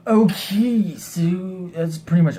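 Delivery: high chirpy wrap-up. Pretend. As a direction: bounce it up high. Playful wrap-up.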